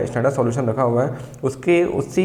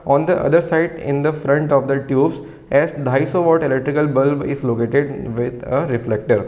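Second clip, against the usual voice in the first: very slow, word by word, for students to write down; slow dictation; much slower than usual. Shown as a demonstration. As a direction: dictate each word clearly so the class can copy. Dictating from textbook.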